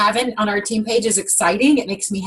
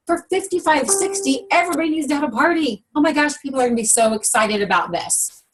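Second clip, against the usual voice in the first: acted excitement; 5 semitones higher than usual. Acting out an excited belief.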